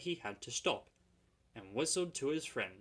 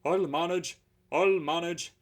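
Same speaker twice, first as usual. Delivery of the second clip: louder wheezing effort; 6 semitones higher, 10 dB louder than usual. Acted. Tired engine insisting to driver, wheezing. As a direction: push the words out between wheezes. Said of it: "he wheezed".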